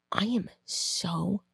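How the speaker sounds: slow, hushed imitation of anger; retold seething anger. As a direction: quote her fury slowly, half whispered. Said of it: "I'm getting really mad about it".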